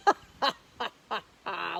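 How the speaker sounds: big booming mocking laugh; lion's laugh. Lion laughing at the tiny mouse, loud mocking laugh. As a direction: scoff with a hearty laugh. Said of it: "laughed the lion".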